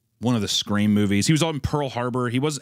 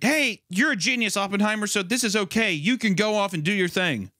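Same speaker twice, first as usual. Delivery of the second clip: higher mock praise; mock colleagues; 7 semitones higher than usual. Mocking colleagues flattering the genius, higher voice. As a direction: pitch it up, gushing lightly. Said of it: "they're all just like".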